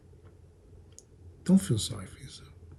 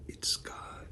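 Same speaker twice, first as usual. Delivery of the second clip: whispered; 14 dB quieter than usual. Acted. Whispered after pause.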